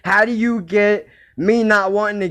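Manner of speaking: can't believe it, laugh through it; outraged disbelief. Real, not acted.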